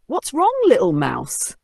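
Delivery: lightly voiced curious friends; a high, kind question; friendly animals. A narrator's reading. Forest friends ask the tired mouse, lightly voiced.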